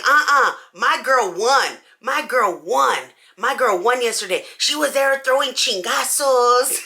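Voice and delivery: a hint of a bold slow friend; insist, lightly voiced; mildly voiced sassy friend; loud opinionated friend. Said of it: "very loud and opinionated".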